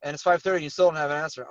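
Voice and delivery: mildly nagging agent, demanding an answer; mock impatient follow-up call; pushy complaint. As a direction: lightly act out an annoyed complaint. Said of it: "don't ever talk like that to somebody".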